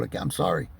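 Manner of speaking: breathy whisper, dropped low; a sheepish whisper; real half-joking whispered apology; whispered aside. Real, not acted. Self-deprecating aside about food.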